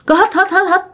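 quick, high sniffs like a dog; imitated dog-like sniffing. Storyteller imitates the old woman sniffing at the kitchen, dog-like sniffing. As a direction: mimic a hungry sniffing dog. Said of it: "bả mới hít như chó".

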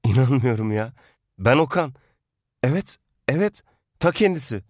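hammed-up delight at finding the ex again; mock thrilled ex. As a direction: act stunned to hear an old flame. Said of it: "eski sevgilim çıkması muhabbetini".

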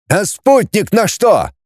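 high, slowed indignant call; mild yell. Acted. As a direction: holler high without much added volume. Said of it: "заорал бородатый". (сдержанный высокий выкрик)

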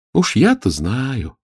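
slow, sighing and knowing. Acted. Olya sighing to her sister, slow. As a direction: let the words sink with a sigh. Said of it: "вздохнула Оля".

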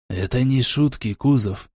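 hushed and scared; frightened. Acted. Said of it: "посмотрел он на меня испуганными глазами".

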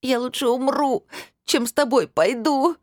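high, slow tearful wail; weeping girl wailing at her stepmother. A narrator's reading. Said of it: "опять заголосила Анжелика".

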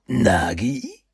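high uncertain call; a small boy unsure; worried young boy. Acted.

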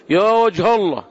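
عامية; colloquial Arabic. Retold or imitated. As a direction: blurt it like a commoner in colloquial Arabic. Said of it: "أنا أنطقها بالعامية".

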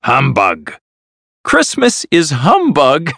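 mildly cross dismissal, climbing in pitch; angry. A narrator's reading. Scrooge rejecting his nephew's Christmas greeting, mildly angry. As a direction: dismiss it with growing irritation. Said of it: "said Scrooge angrily".

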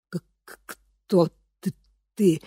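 frightened stammer. A narrator's reading. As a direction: choke out the words in fear. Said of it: "запинаясь, выдавила она". (запинаясь от страха)

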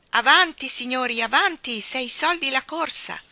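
high, loud hawker's call; fairground barker. A narrator's reading. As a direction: drum up customers for the ride. Park keeper hawking rides.

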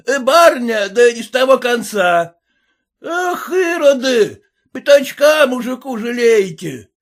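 high, loud abusive yelling; yelling peasant. A narrator's reading. Red-faced peasant yelling after the lady, high loud abuse. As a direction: shout insults at the lady.

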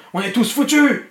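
high, loud despairing shout; crying out. A narrator's reading. Lloyd sees the fireball coming, despairing cry. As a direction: shout out that all is lost. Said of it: "cria Lloyd Enraid".

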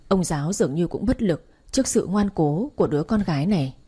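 dramatic storyteller reading over music; story narration. A narrator's reading. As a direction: tell the family drama steadily.

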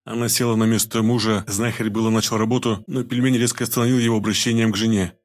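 ordinary delivery

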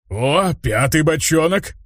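медленно и довольно, выше голосом; протянуть, предвкушая выпивку; довольное бормотание. A narrator's reading. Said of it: "Довольно потирая руки, пробормотал". (орк радуется пятому бочонку)

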